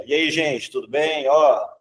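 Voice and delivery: lazy, too casual teacher; overly relaxed greeting; slouchy casual. Shown as a demonstration. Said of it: "ministrando essa aula assim, ó".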